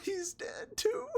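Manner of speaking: slow, laughing disbelief. Real, not acted. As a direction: laugh it out slowly. Laughing at disaster.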